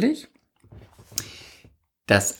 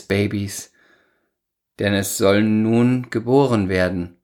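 ironic recital. Acted. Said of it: "Du schweifst wieder ab mit deinem Ton".

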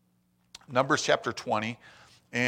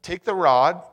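emphatic scripture read; 5 semitones higher, 6 dB louder, slower than usual. Shown as a demonstration. Preacher reading God's command aloud, loud and high. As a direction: Take the rod read higher and louder. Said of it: "It says".

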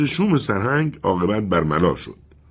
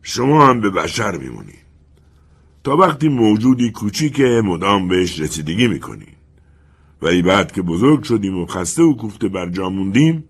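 bitter. Acted. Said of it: "سرهنگ به تلخی گفت".

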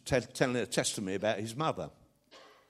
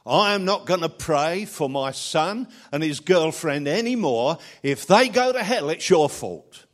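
a mother telling God off, voice raised; retold mother's prayer; 2 semitones higher, 6 dB louder than usual. Old mother telling God she is done worrying, raised. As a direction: hand the burden back to God, boldly. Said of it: "I was praying and I said".

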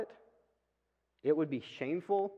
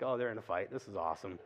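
gleeful aside; 6 semitones lower, 6 dB quieter than usual. Retold or imitated. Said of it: "I'm like".

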